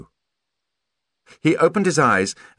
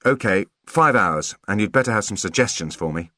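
mock scowl. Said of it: "Holly tried to scowl".

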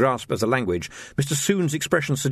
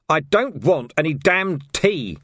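slow, hammered-out refusal; mild mock shout of refusal; angry shout; 5 semitones higher, 3 dB louder, slower than usual. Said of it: "shouted Vimes".

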